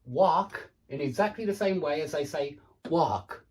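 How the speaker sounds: 1 American wok and walk. Shown as a demonstration. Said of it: "say it like that".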